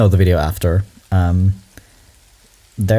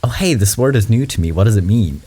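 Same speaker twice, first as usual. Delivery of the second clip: open curiosity; 3 semitones higher than usual. Retold or imitated. Showing how one could ask about a new word, openly curious. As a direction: imitate someone politely asking about something new. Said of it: "It's not a".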